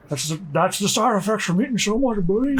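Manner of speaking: lightly voiced gruff cowboy; a hint of a whispery outlaw; Arthur voice. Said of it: "I think I've got an Arthur impression down".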